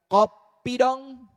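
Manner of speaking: husband's request. Acted. Husband asking his wife for coffee, in a stretched-out call. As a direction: call it out slowly, stretching the words.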